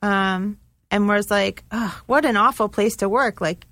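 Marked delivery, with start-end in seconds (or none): 1.7-3.4 lightly mocking groan of complaint; sarcastic. Service person teasing the kitchen crew, sarcastic. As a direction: imitate a teasing customer, tongue in cheek. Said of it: "like, being sarcastic".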